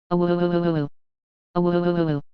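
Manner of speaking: long mournful wolf howl; lost lonely howl. A narrator's reading. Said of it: "Kraxina continued to howl".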